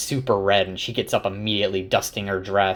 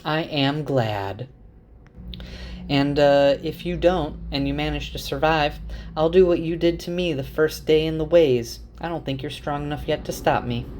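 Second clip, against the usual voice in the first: lightly acted, higher-pitched woman's voice; sweetly threatening woman; 6 semitones higher than usual. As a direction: play her mock-sweet warning, pitched up.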